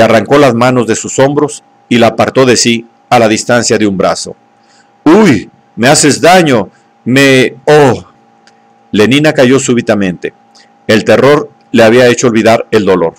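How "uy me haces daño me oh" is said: pained cry. Acted. Savage grips her wrists painfully.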